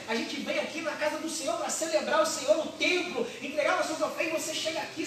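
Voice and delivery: mock-exasperated husband nagging his wife; hammed-up complaint ending in laughter. Elkanah complaining to Ana, mock exasperated and laughing. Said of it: "ele disse pra ela assim".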